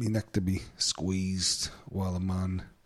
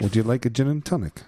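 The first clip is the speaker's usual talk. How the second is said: mock posh offer; 3 semitones higher, 6 dB louder than usual. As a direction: play the fawning barber offering drinks. Mock barber offering drinks.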